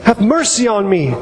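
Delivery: measured cry for mercy from a scripture reading. Acted. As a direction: stretch the plea out slowly, read as a cry. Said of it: "he cried out all the more".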